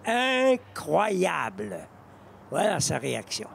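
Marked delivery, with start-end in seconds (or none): 0.1-1.8 awed. Real, not acted. Awed by a birdie streak.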